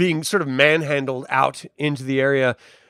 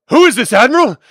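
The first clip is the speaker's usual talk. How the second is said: high, loud demand; urgent shouted question; 9 semitones higher, 10 dB louder, faster than usual. Acted. Guard demanding answers from the Admiral, shouting. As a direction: call it out over the commotion.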